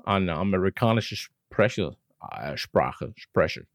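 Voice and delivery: mock American accent in German. Jokes about his English as American language.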